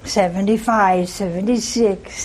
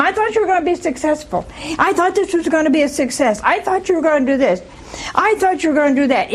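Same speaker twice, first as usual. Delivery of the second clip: quick, higher nagging complaint; nagging spouse; 5 semitones higher, faster than usual. Retold or imitated. Nagging wife scolds her husband, fast and higher-pitched. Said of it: "keeps nagging all the time".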